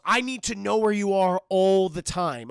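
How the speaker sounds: loud, slow acted insistence; possessive demand. Boyfriend demanding control of girlfriend, loud and possessive. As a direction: lay down the law, drawn out.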